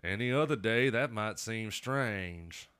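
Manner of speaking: a slow, hammed-up Southern drawl on the Nick Cage line; lightly mock the Alabama accent, stretching out strange; shitty Alabama accent. Quoting Nick Cage from Con Air in a mock Alabama accent. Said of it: "shitty Alabama accent".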